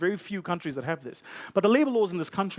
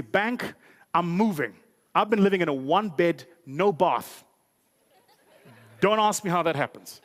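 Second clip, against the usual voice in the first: excited customer; 4 dB louder than usual. Acted. Customer announces moving.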